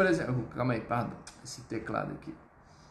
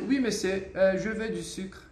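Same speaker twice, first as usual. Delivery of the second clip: polite tone model. Shown as a demonstration. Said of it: "a forma como você vai falar".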